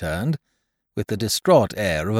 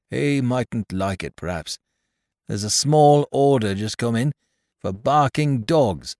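put-on higher, fussy little old man voice; little old toymaker Caleb; 5 semitones higher than usual. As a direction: fret and ramble like a humble old toymaker. Caleb excuses himself to Mrs Peerybingle.

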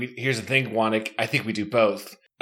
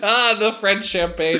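put-on drunk villain; 6 semitones higher than usual. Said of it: "he says".

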